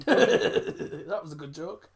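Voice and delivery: slow laughing voice. Real, not acted. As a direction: laugh it out slowly. Laughing at the joke.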